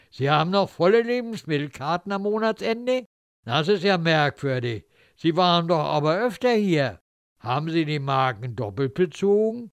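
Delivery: sly, mocking petty official; suspicious official. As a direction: needle her with false politeness. Official confronts Helene.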